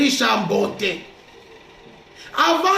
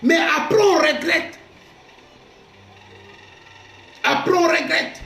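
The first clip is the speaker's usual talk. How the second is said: full-voiced sermon delivery; fervent pulpit voice; preaching. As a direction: preach it out to the congregation. Preaching on anger.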